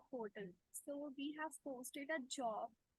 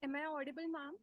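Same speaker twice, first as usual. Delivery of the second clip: raised voice; 4 dB louder than usual. Real, not acted. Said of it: "You are audible, yes".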